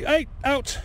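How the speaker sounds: sharp high call to shoo the dog; shout at the dog. Real, not acted. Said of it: "that's me talking to the dog".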